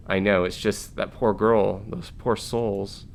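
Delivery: quiet, slow, tearful; a touch of crying, drawn out and soft; soft sobbing. Acted. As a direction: Maveen sobbing over the lost colonists. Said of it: "Vera could hear her soft sobbing".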